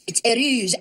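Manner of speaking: heureuse said the French way, eu-RUZ; French word heureuse. Shown as a demonstration. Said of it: "Je suis très heureuse".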